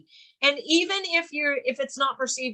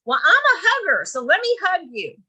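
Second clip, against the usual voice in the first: mock eager hugger; 5 semitones higher, 4 dB louder than usual. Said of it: "agents say".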